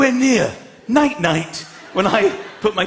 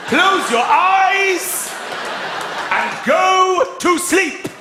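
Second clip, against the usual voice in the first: mock furious dad; 9 semitones higher, much slower than usual. Dad losing it at bedtime.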